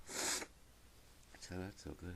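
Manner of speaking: slow breathy sigh of relief after sneezing. Real, not acted.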